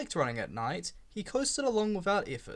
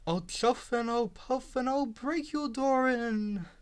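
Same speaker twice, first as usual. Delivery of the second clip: wolf threat; 5 semitones higher, slower than usual. Acted. Toby mocks the big bad wolf.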